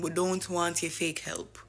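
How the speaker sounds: slow, firm refusal; measured imitating of a defiant leader; defiant quote. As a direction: lay it down slowly and firmly. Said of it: "and saying".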